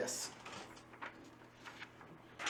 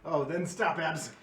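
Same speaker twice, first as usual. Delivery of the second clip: exasperated protest; 3 semitones higher, 7 dB louder, slower than usual. Real, not acted. GM scolding player.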